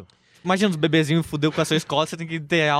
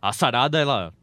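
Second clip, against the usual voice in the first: teacher impression; 10 semitones lower than usual. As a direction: drone it out in a low voice. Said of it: "o cara falando".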